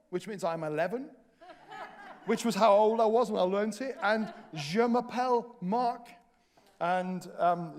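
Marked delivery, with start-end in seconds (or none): 4.5-6.1 "Je m'appelle Mark" said slowly like a beginner; schoolboy French. Shown as a demonstration. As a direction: spell out "Je m'appelle Mark" carefully. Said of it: "All I know how to say is".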